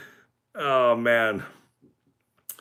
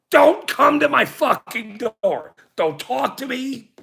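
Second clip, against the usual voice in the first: angry rant; 6 semitones higher than usual. Real, not acted. Re-ranting at the cops.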